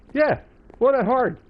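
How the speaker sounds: high mocking squeak; squeaky silly voice. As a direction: tease in a tiny high voice.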